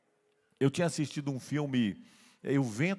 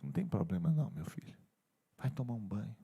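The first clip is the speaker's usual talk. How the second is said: gentle forgiveness; 6 semitones lower, 6 dB quieter than usual. Acted. Grandmother gently forgives the crying child.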